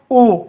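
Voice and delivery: isolated, held ऊ; demo vokal belakang. Shown as a demonstration. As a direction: sound out ऊ as a back 'oo'. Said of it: "पीछे चली जाती है".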